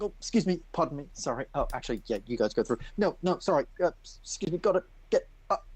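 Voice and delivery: high, hurried polite apologies; flustered apologetic. Acted. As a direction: squeeze past a crowd, apologising. Nathan pushing past people.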